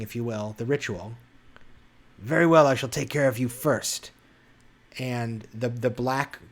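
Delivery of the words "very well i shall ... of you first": a shadow creature threatening the heroes with a booming echo. Acted. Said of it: "and her voice echoes".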